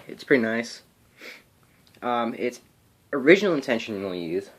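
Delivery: a little winded, catching breath. Real, not acted. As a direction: talk while still winded from running. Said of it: "sorry guys, I'm out of breath".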